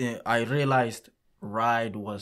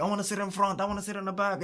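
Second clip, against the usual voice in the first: put-on higher voice for squabbling kids; imitating kids; 7 semitones higher, much faster than usual. Kids arguing over where to sit, lightly voiced higher. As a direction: pitch it up like kids fighting over seats. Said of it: "Because they were, like, rushing".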